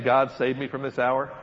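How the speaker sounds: "God, save me from this hour" asked, rising on "hour"; questioning tune. Shown as a demonstration. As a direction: make it a question with a lift on "hour". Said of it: "put a question mark in there".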